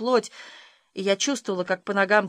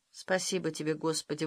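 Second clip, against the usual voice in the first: soft relieved exhale; breathed out; 4 semitones lower, 8 dB quieter than usual. A narrator's reading. Girl breathes thanks as father leaves, soft and relieved. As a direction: let it out on a breath. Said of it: "выдохнула я".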